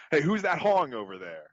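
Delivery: high-pitched mock yell; park ranger yelling. Imitating the park ranger shouting at a camper, a mock yell. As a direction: call out like an indignant park ranger. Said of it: "the park ranger immediately yells".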